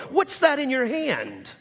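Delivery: high, slow question; God asking Moses, high and slow; God asks. Retold or imitated. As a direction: lean into the wonder of it. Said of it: "To Moses in Exodus four".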